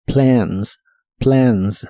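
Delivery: "Plans" with a vowel between e and a; "plans" entre e y a; ae vowel demo. Shown as a demonstration. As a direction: blend e and a in "Plans". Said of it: "combinación entre el sonido E y el sonido A".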